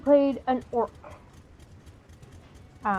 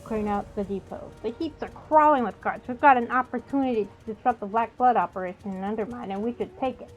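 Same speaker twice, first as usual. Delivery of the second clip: lively, projected reading of game text; quest text read-aloud. Acted. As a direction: read the quest briefing out to viewers.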